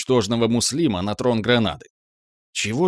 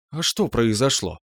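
businesslike. Acted. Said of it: "неожиданно деловым тоном переспросила".

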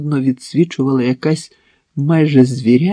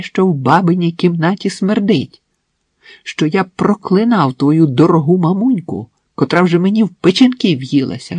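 angry interrogation; 4 semitones higher, 4 dB louder than usual. Acted. Max interrogates his wife angrily.

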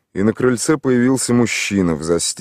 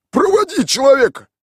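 high, loud command; loud order; 7 dB louder than usual. A narrator's reading. Tolik orders Mikhail to take the stranger round. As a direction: order him like a boss. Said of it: "распорядился Толик".

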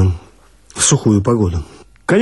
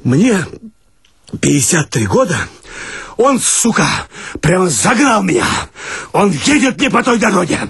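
breathless complaint; 6 semitones higher than usual. Acted. Winded watchman complains.

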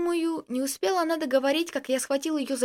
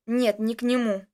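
gruff, louder cut-in; rude interruption; 3 semitones lower, 3 dB louder than usual. A narrator's reading. James cutting Dasha off rudely, gruff. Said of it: "грубо вмешался я".

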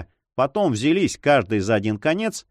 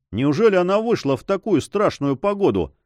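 lively alarmed cry; 7 semitones higher than usual. A narrator's reading. Santiago alarmed that the señora went out, crying out. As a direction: exclaim in alarm about her. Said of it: "с живостью вскричал Сантьяго".

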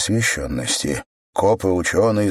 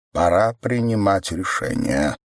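even voice. Acted. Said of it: "произнёс он ровным голосом".

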